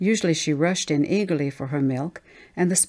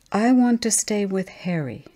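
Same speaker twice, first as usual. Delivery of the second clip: put-on child protesting; 4 semitones higher than usual. Child refuses to go shopping.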